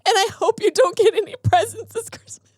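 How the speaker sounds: hammed-up nasty Christmas curse; mock petty chef. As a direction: spit it out like a spiteful grinch. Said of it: "what he really said".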